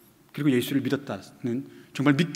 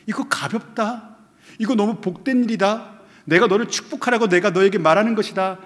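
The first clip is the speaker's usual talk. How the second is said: Jesus pleading; 6 semitones higher, 5 dB louder than usual. Acted. Preacher voices Jesus pleading with believer.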